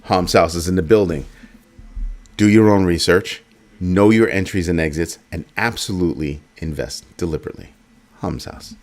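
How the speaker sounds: punchy slogan delivery; catchphrase sign-off. Acted. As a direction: announce it like a show tagline.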